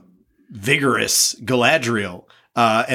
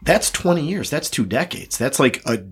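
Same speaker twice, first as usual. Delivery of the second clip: hoarse, worn-out voice; losing voice. Real, not acted. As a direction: voice giving out, hoarse. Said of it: "I'm losing my voice".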